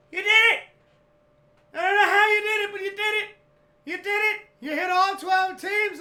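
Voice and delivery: high, full-volume celebratory shouting; ecstatic yelling. Retold or imitated. Dad bursts in about the winning bet, ecstatic screaming. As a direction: scream the big win in disbelief. Pop yelling news of the win.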